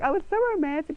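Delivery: mock swoon over a love story; gushing. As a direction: gush like a hopeless romantic. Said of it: "And I'm like".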